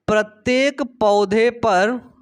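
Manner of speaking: प्रत्येक पौधे पर spelled out slowly, word by word; slow dictation. Shown as a demonstration. Teacher repeats the phrase slowly for students to write down.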